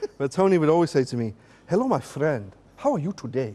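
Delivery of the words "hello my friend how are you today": put-on Nigerian accent with swooping sing-song tune. Retelling what Tony would always say to the speaker, in Tony's Nigerian accent. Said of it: "I'm going to try my Nigerian accent here".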